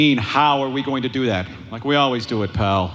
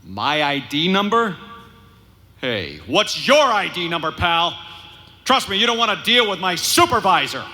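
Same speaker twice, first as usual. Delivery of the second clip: higher, breezy fake-friendly voice; disguised delivery man; 8 semitones higher than usual. Han bluffing the trooper in disguise, breezy and higher. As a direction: play the innocent delivery guy. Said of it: "nice disguise, Solo".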